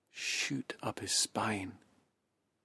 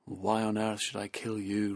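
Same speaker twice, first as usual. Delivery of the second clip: louder, incredulous tiger voice; roaring tiger; 5 dB louder than usual. Acted. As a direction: boom it out in disbelief. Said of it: "roared the tiger".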